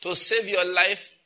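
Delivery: drawn out, slow and weighty; slow deliberate curse. Real, not acted. Preacher calmly cursing betting app users, slow and deliberate. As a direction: deliver it slowly, mock-solemn. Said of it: "It was meditated upon".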